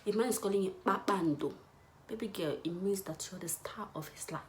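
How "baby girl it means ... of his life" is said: whispered. Real, not acted. Whispering to the audience.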